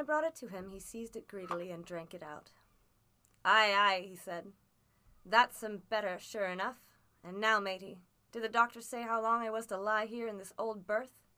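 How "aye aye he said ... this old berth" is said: a lightly voiced rough old seaman, louder; coaxing his boy as a worn-out old sailor; old sea captain. Captain after his drink.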